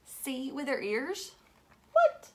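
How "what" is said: high, loud, astonished what; mock amazement. Teacher acting amazed for the kids, high and loud. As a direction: gasp out the disbelief.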